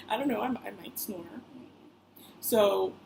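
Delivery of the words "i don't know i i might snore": sheepish laugh while admitting. Real, not acted. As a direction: laugh it off, embarrassed. Embarrassed admitting she snores.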